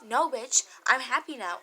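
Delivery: loud, defiant brush-off; loud sassy denial; defiant retort. Real, not acted.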